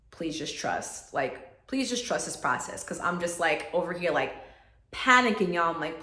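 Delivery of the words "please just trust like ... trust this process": gentle inner voice. Retold or imitated. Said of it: "I just heard this voice".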